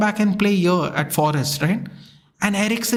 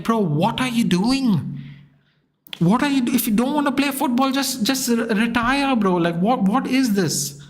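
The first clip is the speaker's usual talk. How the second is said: frustrated; 3 semitones higher than usual. Retold or imitated. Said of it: "it was so frustrating".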